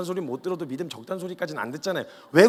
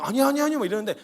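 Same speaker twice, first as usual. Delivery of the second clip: high, louder, flustered refusals; flustered protest; 7 semitones higher, 4 dB louder than usual. Acted. Disciples flustered as Jesus washes their feet, flustered protest.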